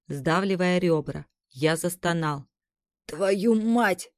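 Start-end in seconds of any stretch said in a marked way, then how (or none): 3.1-4.1 hissing. A narrator's reading. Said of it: "прошипел я".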